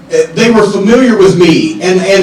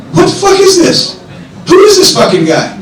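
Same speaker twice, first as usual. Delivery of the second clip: much higher, yelled disbelief; furious outburst; 10 semitones higher than usual. Retold or imitated. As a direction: explode at the screen in a high bark. Flair erupting at the monitor.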